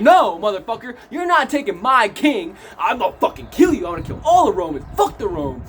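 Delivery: mock furious defiance, emphatic; acted fury. Barabbas defends his king against the Romans, acted fury. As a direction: play the outraged loyal defender, half in earnest. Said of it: "Barabbas is just furious at this point".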